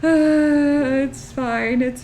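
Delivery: self-soothing. Real, not acted. Calming herself after the smudge.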